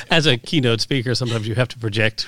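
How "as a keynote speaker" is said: laughing through the words. Real, not acted. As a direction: say it while still laughing. Laughing at radio voice joke.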